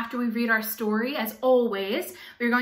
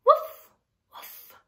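high, loud little puppy woofs; dog barks; 6 dB louder than usual. Acted. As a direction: bark it like an excited puppy. Dog barks in picture book.

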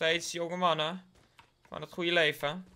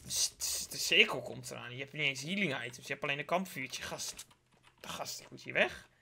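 mock panicked viewer. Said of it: "Jullie hadden gedacht van".

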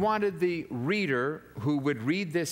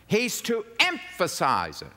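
EMPHASIZE punched higher and louder; emphatic; 5 semitones higher, 3 dB louder than usual. Shown as a demonstration. Preacher explaining the public reader's cue, emphatic. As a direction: lean hard on EMPHASIZE.

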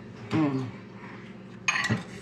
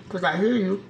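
talking to a pet; 3 semitones higher, 4 dB louder than usual. Real, not acted. Talking to dog.

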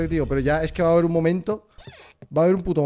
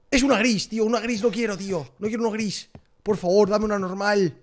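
higher, whining protest; whiny complaint; 7 semitones higher than usual. Real, not acted. Streamer whining at the game for a normal doll.

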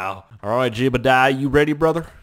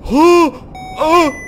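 high, loud cries of alarm; alarmed, high-pitched shouting; panicked yelling; 8 semitones higher, 9 dB louder than usual. Real, not acted. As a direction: yell frantic abort orders. Panics as the craft goes wrong.

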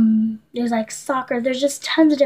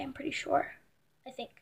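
whisper; 17 dB quieter than usual. Real, not acted. Whispered aside.

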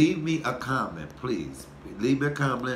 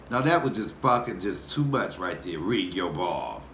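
imitating mama; 6 semitones lower than usual. Retelling how mama scolds him over a crude joke, lightly imitated. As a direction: drag out "Ring your ball" like a scolding mother. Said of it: "My mama would say".

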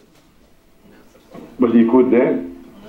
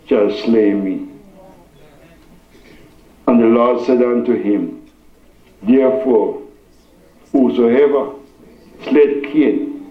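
measured reading with long pauses; scripture reading. Real, not acted. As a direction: read it out solemnly, phrase by phrase. Reads scripture to congregation.

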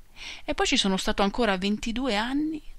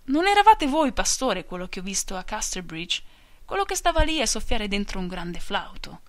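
calling out; 3 dB louder than usual. Acted. Henry calls out to Gabriel about the flute, calling loudly. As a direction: call across the room to the shepherd. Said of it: "e Henry Frey gridò".

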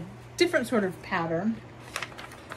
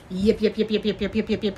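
Yip Yip alien noises; faster than usual. Retold or imitated. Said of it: "It's the Yip Yips from Sesame Street".

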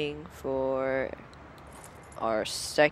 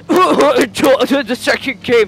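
loud laughter through the words, higher; laughing; 9 semitones higher, 15 dB louder, slower than usual. Real, not acted. Gamer laughing at his own promise to buy the game, loud laughing speech. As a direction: laugh hard while talking.

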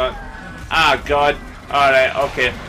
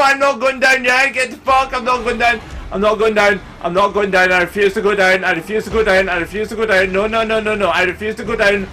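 desperate defiance; 6 semitones higher, faster than usual. Real, not acted. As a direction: refuse with everything. Refusing to die in fight.

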